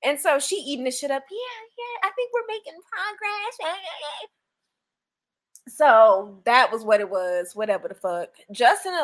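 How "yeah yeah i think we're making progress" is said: mock smug husband.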